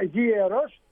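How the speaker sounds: γίερος with a J-like glide between γ and ε; γίερος said as yi-e-ros; inserted i sound. Shown as a demonstration. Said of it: "Βάζω ένα «η», σαν «J»".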